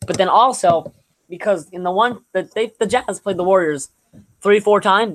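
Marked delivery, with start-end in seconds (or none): 4.4-5.2 real voice crack, a little high. Real, not acted. Sports podcaster counting games against the Warriors, voice cracking. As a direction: let the voice crack mid-phrase. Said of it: "That voice crack".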